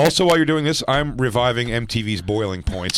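high, loud heckler's announcement; joking yell. Pretend. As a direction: call out over the performer in jest. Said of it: "I'm gonna yell out your punchlines".

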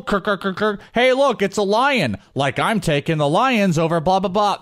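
high, goofy clown voice; silly clown. Retold or imitated. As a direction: play a dopey party clown. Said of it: "in a stupid clown outfit".

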